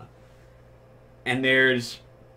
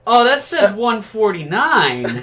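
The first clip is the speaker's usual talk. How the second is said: laughing; 8 semitones higher, 5 dB louder, slower than usual. Retold or imitated. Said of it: "And I'm just like".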